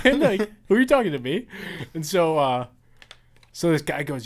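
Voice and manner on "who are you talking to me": high, loud mock-innocent squeak; innocent troll. Troll answering angry players, in a high mock-innocent voice. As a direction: play dumb in a squeaky put-on voice.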